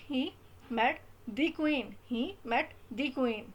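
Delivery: "the" said as a slow, stressed "दी" before "queen". Shown as a demonstration. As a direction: drag out "he met the queen", weight on "the". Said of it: "emphasise दे रहे हो queen word पे". ("the queen" पर धीमा ज़ोर)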